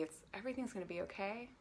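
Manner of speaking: gentle reassuring self-talk; kind inner voice. Shown as a demonstration. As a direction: comfort the frightened part of you. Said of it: "a kind and friendly inner tone".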